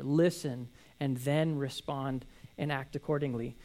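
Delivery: slow them down gently, word by word; calm instruction. Acted. James calmly urging readers to stop and listen.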